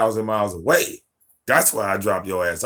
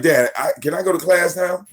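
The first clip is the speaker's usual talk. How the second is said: higher, imitating his daughter asking; lightly voiced daughter; 7 semitones higher, 4 dB louder than usual. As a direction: mimic a kid asking to leave. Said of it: "She's like".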